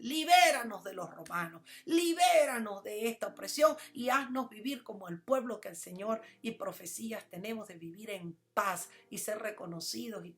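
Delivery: a hint of the crowd crying for rescue from Rome; mild retold cry of the crowd; crowd's cry. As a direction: voice the people pleading for freedom. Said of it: "lo estaban gritando".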